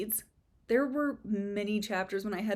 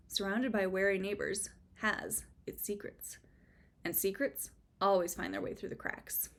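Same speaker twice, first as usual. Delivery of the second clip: measured storytelling that drops softer at the end; suspenseful blurb reading; 3 dB quieter than usual. Acted. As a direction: read it like a mystery teaser. Reads the book's blurb.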